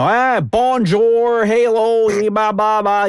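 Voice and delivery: hammed-up bad French accent, high and drawn out; mock a friend's awful accent in French; terrible French accent. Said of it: "the worst accent imaginable".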